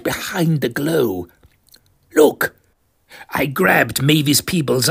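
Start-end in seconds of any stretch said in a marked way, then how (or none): 2.2-2.6 high, loud startled shout; excited cry. Acted. Desmond to Mavis on seeing the drop, excited cry. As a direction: point it out in alarm. Sighting object, grabs arm.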